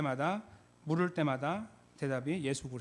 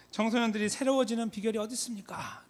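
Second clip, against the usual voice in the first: high, rousing question; preacher's rally question; 8 semitones higher than usual. Retold or imitated. Late pastor asking young people at a retreat, rousing question. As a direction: put it to a huge crowd. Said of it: "또 이렇게 물어봅니다".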